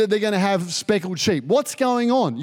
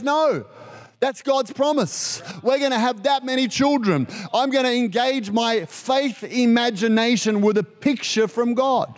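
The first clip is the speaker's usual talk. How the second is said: lightly voiced Abraham; 2 semitones higher than usual. Abraham standing firm to his wife, slightly raised voice. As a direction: answer her with steady faith.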